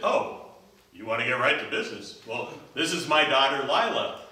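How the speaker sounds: king voice. Acted. King voiced, gruff host.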